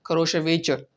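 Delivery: "खरोश वेचर" said carefully, falling at the end; Russian evening greeting demo; Russian phrase. Shown as a demonstration. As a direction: model "खरोश वेचर" slowly. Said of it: "शुभ शाम".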